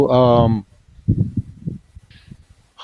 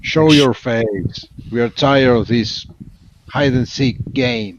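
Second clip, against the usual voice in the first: understated shouted challenge; mild in-character shout; 3 semitones higher than usual. Acted. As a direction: call them out, but hold back the volume. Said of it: "shouts out".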